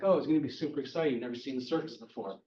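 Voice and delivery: quick, lightly hyped-up chatter; mock-excited small talk, rattled off fast; retold excitement. Aunt May chats to Franklin about the circus, mock excited.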